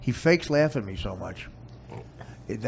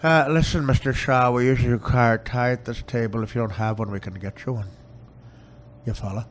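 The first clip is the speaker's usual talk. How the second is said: Robert Shaw impression; 6 dB louder than usual. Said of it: "Robert Shaw in that movie".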